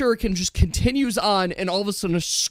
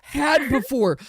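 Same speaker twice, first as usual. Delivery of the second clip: higher-pitched panicked announcer; fighting game announcer; 8 semitones higher than usual. Acted. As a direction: call for a healer like an announcer. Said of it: "the arena announcer is like".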